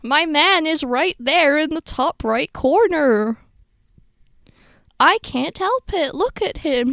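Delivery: high, loud fangirl squeal, drawn out at first; giddy shrieking over a crush; excited squeal. Real, not acted. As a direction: gush over him, can't contain it. Fangirling over her character.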